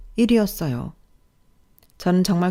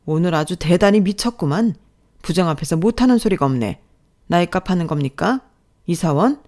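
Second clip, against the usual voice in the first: mocking boss, somewhat louder; sarcastic rebuke; 4 dB louder than usual. Boss to employee talking back, scornful. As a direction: needle an employee who dared answer back.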